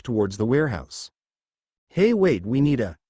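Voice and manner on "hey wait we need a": calling out. Acted. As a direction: call after her, alarmed. Calling after rushing partner.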